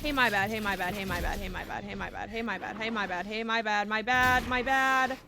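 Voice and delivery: rapid repeated pleading; hurried apology. Real, not acted. Player apologizing to game enemies, hurried and repetitive. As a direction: apologize over and over without a gap.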